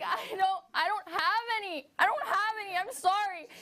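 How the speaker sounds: high, whimpering apology; panicked pleading. Acted. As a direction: beg for mercy, voice cracking. Herself pleading with uterus.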